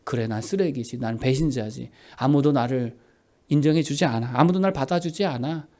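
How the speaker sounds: low, soft voice of giving up; acted defeat, subdued and low; resigned self-loathing. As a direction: quietly accept the accusations, pitched low. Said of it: "이 마귀의 말을 다 받아들여요".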